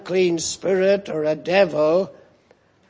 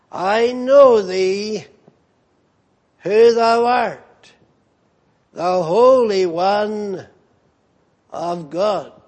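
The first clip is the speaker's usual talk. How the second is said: devil's cry. Acted. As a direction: cry it out as the cornered devil, slowing. Preacher voicing the devil's cry.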